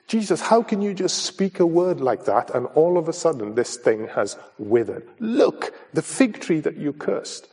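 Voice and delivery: high, astonished exclaim; surprised. Acted. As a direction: disciple amazed at the withered fig tree. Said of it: "There was a sense of surprise".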